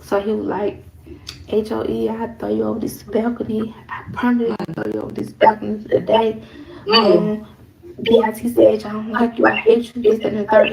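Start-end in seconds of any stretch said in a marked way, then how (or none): 1.5-10.7 retold going off. Woman retelling her man's threats, going off. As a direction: retell his rant with building volume. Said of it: "He was going off".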